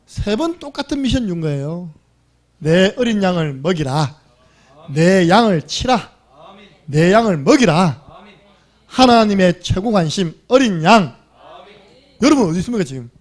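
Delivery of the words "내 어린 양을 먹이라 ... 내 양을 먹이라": slow, louder solemn command; Jesus commanding. Retold or imitated. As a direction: give the charge slowly and firmly. (예수님이 베드로에게 천천히 크게 명령함)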